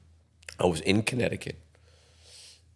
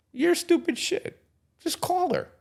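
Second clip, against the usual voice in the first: father's voice. Retold or imitated. Father scolding son to just call the girl, mock high voice. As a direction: mimic a fed-up father snapping. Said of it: "He goes".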